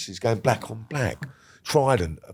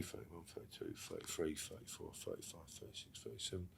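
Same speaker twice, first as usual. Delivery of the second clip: barely voiced, low counting under the breath; whispered counting; 4 semitones lower, 26 dB quieter than usual. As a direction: count the years to yourself in disbelief. Counting his years alone in cell.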